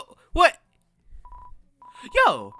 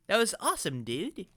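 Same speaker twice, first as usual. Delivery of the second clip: put-on toned-down kid monster character; 3 semitones higher than usual. Kid monster admiring what he saw, in a toned-down character voice. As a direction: voice a monster kid without the cartoon squeal. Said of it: "need to have a different accent for this character".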